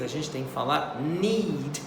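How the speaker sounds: need with a stretched EE; teacher exaggerating the vowel in need; long EE. Shown as a demonstration. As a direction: draw out the EE in need. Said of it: "exagerada nesses dois E's".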